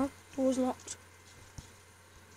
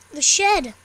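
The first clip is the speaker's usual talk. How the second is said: surprised; 12 dB louder than usual. Real, not acted. Sudden discovery.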